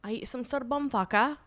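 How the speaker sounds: mock British accent. Shown as a demonstration. Friend answers the request for British, mock British accent. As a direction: crude non-posh British accent. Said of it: "Do a British accent".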